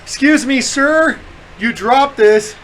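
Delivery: lightly voiced strange guy at the airport. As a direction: put on a slightly odd stranger's voice. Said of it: "strange voice".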